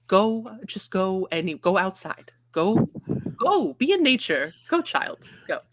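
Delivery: rising, shooing exasperated mother; harassed mother. Acted. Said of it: "as any harassed mother would sound".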